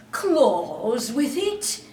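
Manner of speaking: slow frightened echo. Acted. John shocked by the hook.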